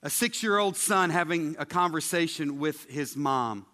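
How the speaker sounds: usual speaking voice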